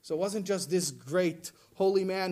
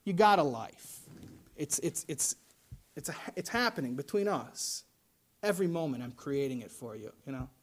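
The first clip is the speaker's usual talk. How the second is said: gentle God voice; 6 semitones lower, 5 dB quieter than usual. Retold or imitated. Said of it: "He says".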